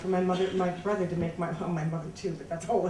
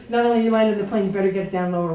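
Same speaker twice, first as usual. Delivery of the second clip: louder, commanding big brother; stern order; 9 dB louder, much faster than usual. Retold or imitated. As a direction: lay down the law, no argument. Brother ordering her to land.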